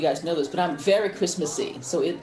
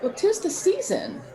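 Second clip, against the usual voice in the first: laughing; 12 semitones higher than usual. Real, not acted. Laughing remark on sappy movies.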